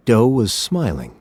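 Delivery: usual speaking voice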